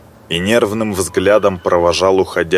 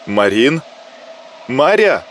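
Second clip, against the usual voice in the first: зовёт громче; 5 semitones higher than usual. A narrator's reading. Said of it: "повысила голос девушка".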